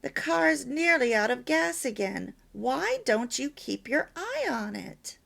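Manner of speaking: mildly critical wife's reproach; critical complaint. Shown as a demonstration. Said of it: "You can see the difference".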